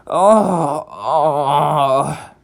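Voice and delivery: groaning with travel sickness; sickly moan. Acted. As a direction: moan as if about to be sick.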